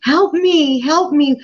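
high, pleading cry to God; desperate cry for help. Retold or imitated. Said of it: "I started to cry out to God and said".

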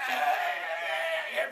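slow stuck eh, eh; a hint of stammering whisper to Aaron; stuttering Moses. Preacher playing Moses stuttering to Aaron. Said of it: "Moses would be like".

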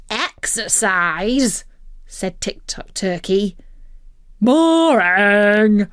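slow, disgusted whine; a lazy bird refusing; bored turkey groan; scornful turkey. Acted. Turkey dismissing exercise.

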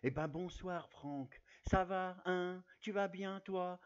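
a gruff-friendly Depardieu hello, mock; a hint of Gérard Depardieu; Gérard Depardieu impression. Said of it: "je vais faire la voix de Gérard Depardieu".

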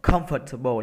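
"comfortable" with COM leading; stress on first syllable. Shown as a demonstration. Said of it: "là âm một".

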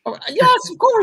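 high, put-on voice that is not his own; mock lofty voice. Boasting about his Batman movie role, mock lofty high voice. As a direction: answer like a grand actor.

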